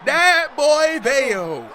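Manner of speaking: long, high, loud hype call; hype shout. Real, not acted. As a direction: stretch it out, screaming with hype.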